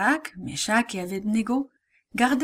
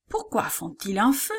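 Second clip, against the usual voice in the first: plain reading voice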